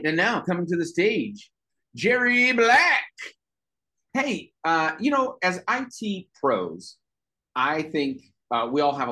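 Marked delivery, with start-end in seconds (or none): 0.0-3.0 stage emcee hyping the name; announcer introduction. Real, not acted. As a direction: build to a high, stretched name. Emcee introduces next act.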